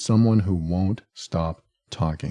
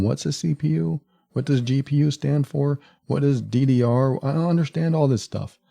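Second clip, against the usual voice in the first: higher-pitched mock confused protest; overwhelmed listener; 5 semitones higher than usual. Overwhelmed listener interrupting a computer explanation, protesting in confusion. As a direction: act out a lost listener asking for a slowdown. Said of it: "You might tell me".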